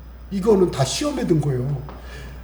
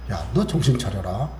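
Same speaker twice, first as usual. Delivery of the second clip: God rebuking; 5 semitones lower, 4 dB quieter than usual. Retold or imitated. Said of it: "이러시는 거예요". (낮고 느리게 꾸짖는 하나님 목소리)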